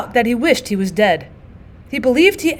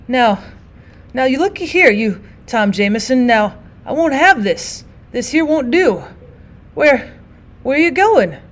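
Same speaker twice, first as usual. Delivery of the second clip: rambling, dazed; 3 semitones higher than usual. Acted. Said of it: "rambling on in an idiot fashion".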